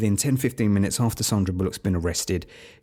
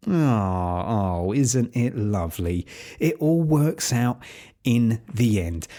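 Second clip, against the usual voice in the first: slow, drawn-out fake sentimental cooing; syrupy mock delight; mock gushing; slower than usual. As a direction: coo over it sarcastically. Mock gushing over predictable ending.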